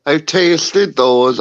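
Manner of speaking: repeating slowly after being misheard. Real, not acted. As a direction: say it again, slow and clear.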